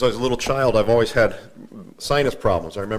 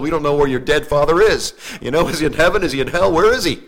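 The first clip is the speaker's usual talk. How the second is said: mock the funeral preacher's uncertainty; mocking quote; 3 semitones higher, 3 dB louder than usual. Preacher mimics funeral officiant to his congregation, incredulous.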